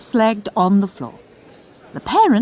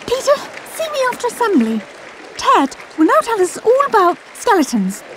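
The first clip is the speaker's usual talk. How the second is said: clipped teacher; faster than usual. Acted. Teacher cutting him off.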